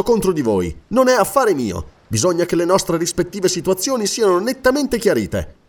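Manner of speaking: lightly voiced lord, pressing firmly; earnest interrogator. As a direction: question him with measured insistence. (interrogatore fermo e insistente)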